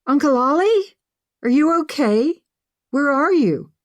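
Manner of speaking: high, loud, urgent questions; alarmed niece seeking her uncle; worried calling out. A narrator's reading. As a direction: call anxiously down a bad phone line. Niece anxious for uncle on phone.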